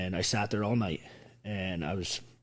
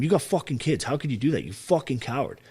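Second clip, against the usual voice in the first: higher-pitched, mildly heated retold reproach; retold scolding; 4 semitones higher than usual. Speaker replaying how he called friends cowards, retold scolding. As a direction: replay berating someone, pitched up at the start. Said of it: "I used to call those guys cowards".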